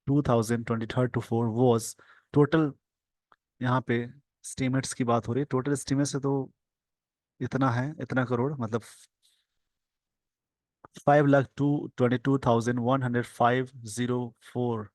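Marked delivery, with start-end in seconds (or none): 0.1-2.7 slow dictation. Shown as a demonstration. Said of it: "slow dictation reading". 11.1-14.8 slow dictation. Shown as a demonstration. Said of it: "slow dictation reading".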